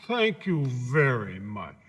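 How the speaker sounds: grateful scarecrow voice. Acted.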